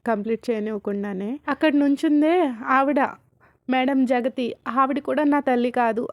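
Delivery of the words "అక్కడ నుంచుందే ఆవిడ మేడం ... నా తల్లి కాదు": louder mock shout; retold shout. Rishi points at Jagathi and denies her: loud mock shout. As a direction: point and shout it out, lightly acted. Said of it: "గట్టిగా అరుస్తాడు".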